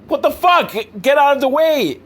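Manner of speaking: high, loud mock yell at the criminals. Driver shouting at criminals to move, mock yell. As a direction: yell get out of the way, hammed up.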